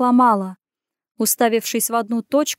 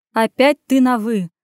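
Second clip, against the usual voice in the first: mild louder growl of annoyance; a touch of gruff irritation; 5 dB louder than usual. Acted. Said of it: "прорычал Лев".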